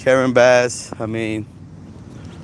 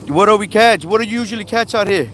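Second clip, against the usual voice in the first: friendly questioning; 9 semitones higher, faster than usual. Real, not acted. Questioning the fisherman.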